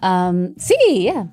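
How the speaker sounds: Mexican-accented Spanish, haltingly delivered; searching for words in Mexican Spanish. Shown as a demonstration. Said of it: "My favorite accent is Latin, is, is Mexican".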